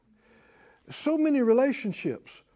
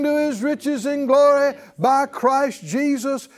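slow, sure words of faith; confident declaration; 3 semitones higher, 4 dB louder, slower than usual. Shown as a demonstration. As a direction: proclaim it with calm certainty. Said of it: "You say".

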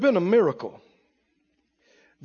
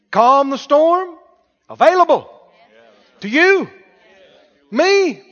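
rising, louder preacher's cadence, building to a peak; preaching at full force; 6 semitones higher, 8 dB louder than usual. Acted. Preacher building to a roar for the congregation. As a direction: preach it up, climbing with each line.

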